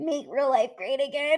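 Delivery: soft, tearful voice, speaking through tears. Looking at something that moves the speaker to tears: crying while talking. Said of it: "I can't believe I'm fucking crying".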